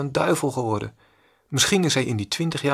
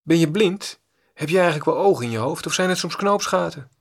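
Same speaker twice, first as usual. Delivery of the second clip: higher, louder scolding yell; mock angry shout; 4 semitones higher, 3 dB louder than usual. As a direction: bark it like an insulted stranger. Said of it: "De man schreeuwt".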